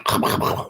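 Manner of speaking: rough, rapid chomping sound; imitated gobbling noise. Storyteller shows the hungry stranger eating, mock gobbling noise. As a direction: mimic someone wolfing down food. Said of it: "he really just".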